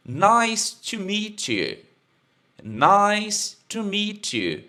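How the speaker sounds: teacher modelling "Nice to meet you" slowly; slow model. Shown as a demonstration. Teacher modelling the phrase slowly for the class. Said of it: "Prazer em te conhecer".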